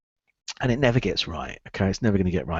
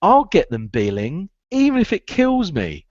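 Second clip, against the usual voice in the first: stubborn vow; 8 semitones higher than usual. Retold or imitated. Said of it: "the other one I used to say is".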